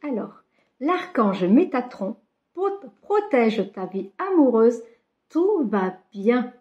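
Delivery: reading each word slowly off the card. Shown as a demonstration. Reading the card aloud to her viewers, slow and deliberate. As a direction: spell out the card's message slowly, word by word. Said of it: "Je sais pas si vous allez le voir".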